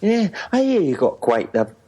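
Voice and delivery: high, mock Scottish accent. Co-host plays a visitor to Detroit, Scottish accent. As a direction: chat in put-on Edinburgh Scots. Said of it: "I can do Scots".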